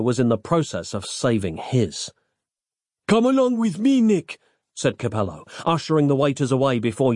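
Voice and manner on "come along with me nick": high-pitched, urgent character voice; rescuer's voice. A narrator's reading. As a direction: usher him along in a raised voice. Rescuer takes charge of Nick.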